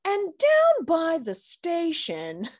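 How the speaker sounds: slow, high newscaster voice; broadcasting voice. Retold or imitated. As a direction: read it like an old-time news anchor. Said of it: "with the broadcasting voice".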